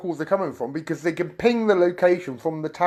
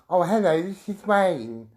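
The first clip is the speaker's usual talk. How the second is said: Wayne. Retold or imitated. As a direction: imitate the troll's drawling phone greeting. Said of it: "That was my impression".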